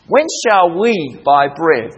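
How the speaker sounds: slow, measured reading leaning on "we"; stress on WE. Shown as a demonstration. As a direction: stretch and lift "we" in the question. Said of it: "what's the next word?".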